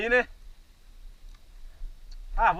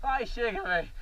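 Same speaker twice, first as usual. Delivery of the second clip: in pain; 4 semitones lower, 4 dB quieter, slower than usual. Real, not acted. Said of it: "Ai, que dor".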